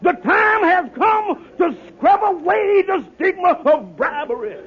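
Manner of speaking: orate to the crowd like a politician; hammed-up stump speech; soapbox speech. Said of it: "I stood on that soapbox and I said".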